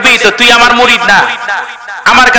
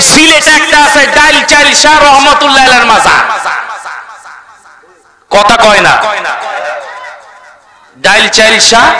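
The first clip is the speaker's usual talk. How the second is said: crowd-rousing sermon with rhetorical questions; fiery preaching. Real, not acted. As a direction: swing between scolding outbursts and prodding the crowd to respond.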